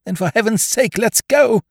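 put-on high, urgent young toff. Wooster begging Jeeves to leave, high and urgent. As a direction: hurry him along, desperate.

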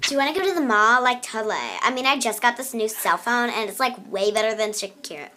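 put-on fast, bubbly valley girl voice. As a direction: do a ditzy mall girl. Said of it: "two accents that I can say".

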